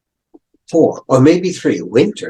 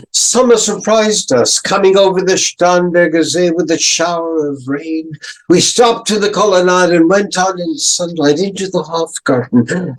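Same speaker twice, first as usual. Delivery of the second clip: brighter, higher reading of the verse; lively poem reading; 5 semitones higher than usual. Shown as a demonstration. Teacher reading the surprising summer lines, brighter reading. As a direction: lift the voice as the summer line arrives. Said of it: "Do you see how much longer the next line is?".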